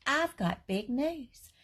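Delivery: a first grader bursting with news; excited child voice. Acted. Repeated in child voice.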